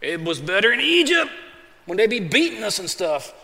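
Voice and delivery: whiny, complaining voice; grumbling Israelites. Retold or imitated. Israelites grumbling to Moses, mock whiny complaint. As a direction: grumble like a people without water. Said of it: "They start grumbling".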